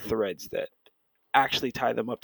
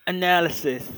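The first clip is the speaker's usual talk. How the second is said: a higher stab at British analysis; attempted British accent; 5 semitones higher, slower than usual. Shown as a demonstration. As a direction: try the word in British. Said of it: "I gotta work on that".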